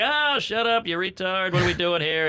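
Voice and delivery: a hammed-up high-pitched snap; mock snapping. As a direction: shoo the kid off. Brushing off niece, joking.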